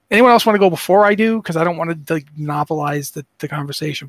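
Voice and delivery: hoarse, raspy voice. Real, not acted. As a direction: talk through a raspy throat. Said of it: "Plus, I sound like a raspy, you know, corpse".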